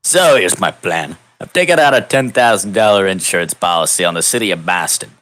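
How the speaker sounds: a hint of a scheming mayor laying out his plan; mayor of Boston. Mayor to the hero on the phone, lightly voiced scheming mayor. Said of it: "says the mayor of Boston".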